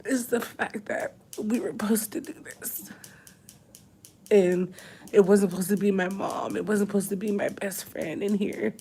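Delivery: high, broken whisper through tears; choking it out, barely voiced; tearful whisper. Real, not acted. Pregnant wife grieving her absent partner: high, crying whisper.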